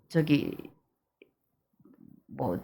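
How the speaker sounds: ordinary talk, nothing marked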